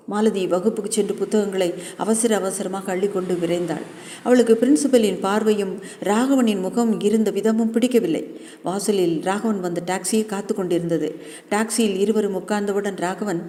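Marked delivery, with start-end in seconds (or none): none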